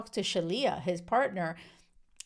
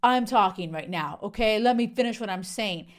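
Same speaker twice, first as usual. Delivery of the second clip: mock bossy shushing, a bit louder; a mild impression of the husband cutting his wife off; imitating a bossy husband; 4 dB louder than usual. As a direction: hush her like a condescending husband talking over his wife. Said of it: "he is like".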